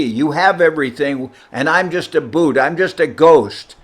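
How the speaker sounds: upset scolding. Retold or imitated. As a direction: give the disciple an exasperated earful. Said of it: "Govinda Maharaj was upset".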